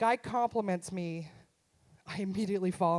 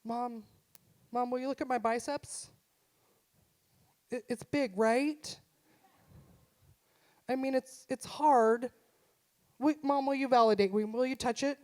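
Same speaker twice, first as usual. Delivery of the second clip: insecure son; 2 semitones higher than usual. Retold or imitated. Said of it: "But he's so insecure".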